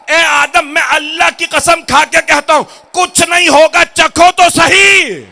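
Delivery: high, loud dramatic sermon retelling; full-force preaching. Acted. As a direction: deliver the oath in a ringing pulpit shout. Preaches the retold oath at full force.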